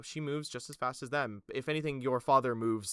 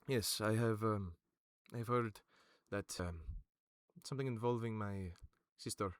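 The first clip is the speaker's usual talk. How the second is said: lower, softer princely voice; a hint of a measured young royal; Sirius; 3 semitones lower, 6 dB quieter than usual. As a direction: keep it low and hushed like a wary prince. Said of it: "steps forward and goes".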